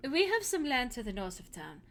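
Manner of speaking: put-on lightly held German accent as Hilda; a hint of a German farm girl. Hilda tells the hero about her farm in a German accent. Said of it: "this accent".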